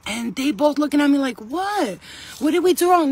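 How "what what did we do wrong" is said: mock innocent kids, higher pitch; baffled kids. Two girls answering the angry mother, baffled. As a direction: lightly mimic two puzzled girls.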